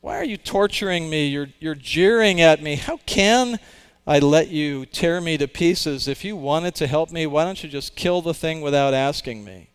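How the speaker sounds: high, loud anguished protest; anguished ghost. Acted. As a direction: cry out at your tormentor. Ghost rails at the angel.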